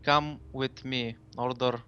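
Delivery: slow, level machine voice; robot voice. Acted. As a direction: confirm the order like a robot. Machine obeys order.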